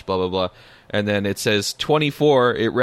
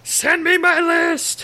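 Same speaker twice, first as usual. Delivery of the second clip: whiny demand; slower than usual. Pretend.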